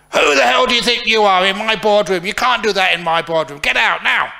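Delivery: high, loud roaring rage at an intruder; furious boss shout. Acted. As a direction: bellow like a boss from hell. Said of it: "Was that convincing?".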